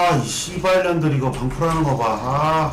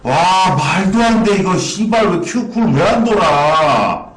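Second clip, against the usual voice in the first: loud, furious gamer cursing; frustrated cursing; 6 semitones higher, 7 dB louder, slower than usual. Real, not acted. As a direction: swear loudly at the game. Losing a hard fight.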